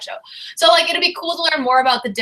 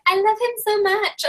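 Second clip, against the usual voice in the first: mock swooning; 10 semitones higher than usual. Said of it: "she'd be like".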